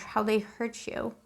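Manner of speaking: soft and slow, ache in each word; hushed sympathy. Real, not acted. Tarot reader to a Scorpio viewer, softly pained and slow. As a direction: murmur it like you feel their hurt.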